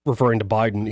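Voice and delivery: ordinary talk, nothing marked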